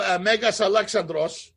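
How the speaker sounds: Megas Alexandros said the Greek way, MEH-gas ah-leh-KSAN-dros; Greek-style name; Greek pronunciation. Shown as a demonstration. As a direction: give Megas Alexandros its Greek sounds, rolled r. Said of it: "So they're doing Ale".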